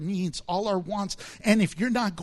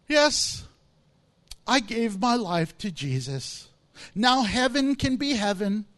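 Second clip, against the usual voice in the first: proud believer. Retold or imitated. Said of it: "There are people who talk like that".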